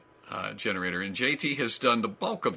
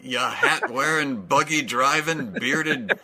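Amish insult; slower than usual. Pretend. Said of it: "how the Amish insult each other".

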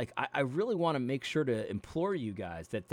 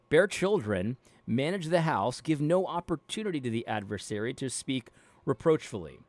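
measured, steady Bible reading voice; careful, even reading of scripture. Acted. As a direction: read the passage out like a lesson. Reads Bible passage aloud.

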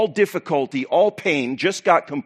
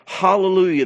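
higher, louder shout of praise; raised voice, jubilant acclamation; crying out; 5 semitones higher, 5 dB louder than usual. Acted. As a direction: cry it out for a whole crowd. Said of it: "once more they cried out".

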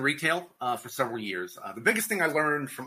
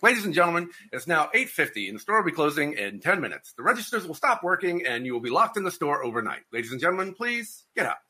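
PA announcement, growing desperate; store closing announcement; 3 semitones higher than usual. Retold or imitated. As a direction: announce closing, then plead. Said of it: "You're like".

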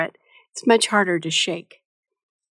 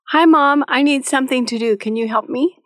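put-on cheerful kid; 4 semitones higher than usual. A child politely asking mom for a job, cheerfully. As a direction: sound like a happy, helpful kid. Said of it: "in a cheerful voice".

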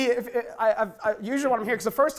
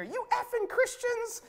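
retold shout; 3 dB quieter, slower than usual. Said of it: "I hear".

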